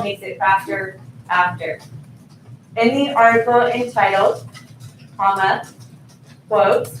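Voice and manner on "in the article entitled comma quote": dictating. Shown as a demonstration. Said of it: "notice how it's gonna keep".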